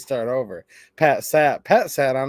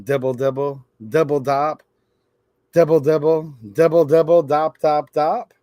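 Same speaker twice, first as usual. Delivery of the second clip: rain sound; 3 dB louder than usual. Acted. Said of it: "He can sound like rain".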